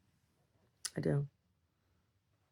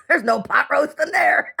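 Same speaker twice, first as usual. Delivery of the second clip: louder laughing punchline; 9 semitones higher, 4 dB louder than usual. Real, not acted. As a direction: laugh through the joke.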